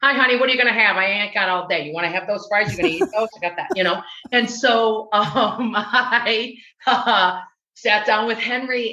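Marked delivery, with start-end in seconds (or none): 0.0-3.7 put-on lightly rude diner waitress with a Chicago accent; brusque Chicago waitress taking an order. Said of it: "I was doing my Chicago accent".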